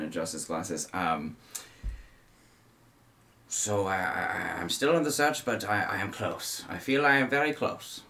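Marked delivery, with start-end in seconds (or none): 3.5-8.0 slightly raised, determined; a hint of the hunter's resolve; lightly voiced Van Richten. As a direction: insist you are close.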